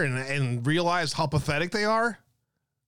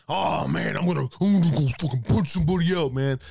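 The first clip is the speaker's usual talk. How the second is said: fast, louder hammed-up hothead; mock tough guy; 3 dB louder than usual. Streamer mocks an angry guy vowing to punch someone, fast and louder. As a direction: play a rushed, louder fake brawler. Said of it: "Not in a way where it's like".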